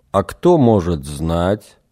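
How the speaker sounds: slow, pressing question. Acted. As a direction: push him for an answer, slowly. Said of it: "с нажимом спросил Эгин".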